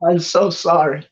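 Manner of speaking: put-on old man's drawn-out, regretful oh, then sorry; dismayed apology. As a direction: apologize as if kicking yourself. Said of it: "he kinda face palms his forehead".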